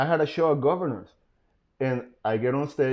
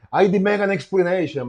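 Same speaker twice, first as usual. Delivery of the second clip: higher-pitched mock demand; imitated ex; 5 semitones higher than usual. Ex demanding answers from him, lightly imitated high. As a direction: lightly mimic an indignant ex. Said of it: "she was like".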